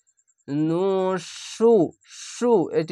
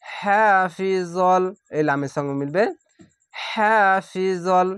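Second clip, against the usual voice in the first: slow, drawn-out chanted recitation; Quranic recitation; much slower than usual. Shown as a demonstration. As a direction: recite each word slowly with tajweed. Recited demo.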